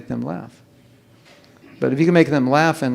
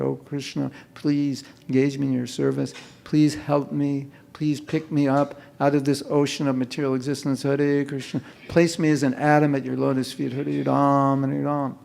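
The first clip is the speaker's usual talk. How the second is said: sincere prayer; 4 dB quieter than usual. Shown as a demonstration. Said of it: "say it like you mean it".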